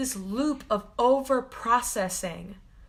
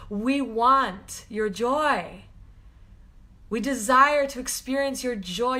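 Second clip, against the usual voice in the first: channeled message; slower than usual. Acted. Healer to viewers, slow channeled blessing. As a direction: deliver it as a message coming through. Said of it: "that's coming through really strong".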